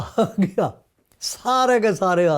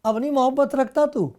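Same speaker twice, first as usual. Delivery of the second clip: mock disappointed. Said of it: "یہ نہیں کہا کہ".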